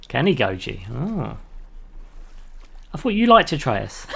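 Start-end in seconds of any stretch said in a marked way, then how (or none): 2.9-4.1 laughing through the words; giggling while talking. Real, not acted. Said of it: "couldn't get through that fully without laughing".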